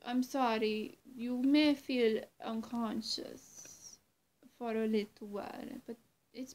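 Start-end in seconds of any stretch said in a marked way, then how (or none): none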